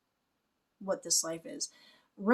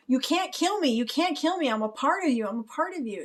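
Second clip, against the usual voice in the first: desperate villain; 6 semitones higher than usual. Retold or imitated. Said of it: "It's just this desperation".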